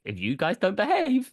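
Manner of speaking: high, loud stern parent warning; scolding parent. Retold or imitated. Parent scolding kids about movie.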